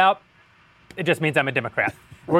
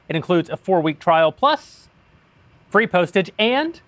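"plus" and "and" leaned on, slowed down; stress on plus and and. Shown as a demonstration. Reading the ad copy, pushing the underlined words slowly. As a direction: hit "plus" and stretch out "and" slowly. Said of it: "They underline plus and and".

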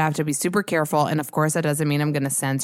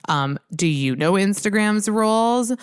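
higher, questioning comeback with a rising end; retold retort; 5 semitones higher than usual. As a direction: throw the question back at them, pitched up. Retold retort to her family.

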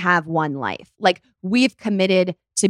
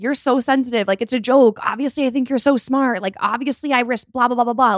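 mock defensive; 4 semitones higher than usual. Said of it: "I would be defensive".

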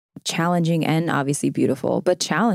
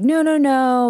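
higher, insistent string of no's; imagined reassurance; 7 semitones higher, 4 dB louder, slower than usual. Retold or imitated. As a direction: cut in to reassure a worried friend. Imagined friends correcting her worries.

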